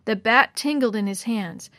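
usual speaking voice

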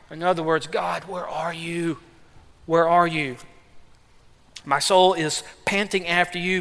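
sorrowful plea. Acted. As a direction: call out to God in quiet sorrow. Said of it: "Because he says".

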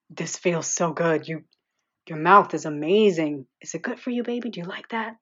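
a lightly voiced man straining to hold back; tight, taut with emotion. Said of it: "His voice sounded tight, taut, full of emotion".

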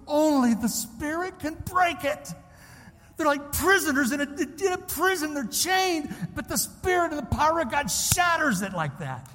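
high, intense pulpit voice; preacher straining with urgency; fervent preaching. Real, not acted. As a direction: press each image home with conviction. Preaches to the congregation.

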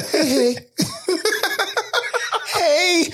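very high, playful drop; a singer's style. Retold or imitated. Demonstrating a gentler car horn to co-host, high and friendly. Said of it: "should be a Pharrell drop that says".

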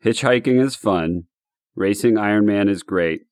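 measured, deliberate poem reading with a pause between lines; haiku recital. Shown as a demonstration. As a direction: read each line as its own small beat. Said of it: "So here's my haiku".

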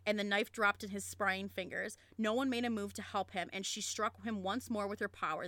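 steady, dramatic read-aloud of a novel; story narration. A narrator's reading. Reading the torture scene to a friend, story narration. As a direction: read the fantasy climax as a storyteller.

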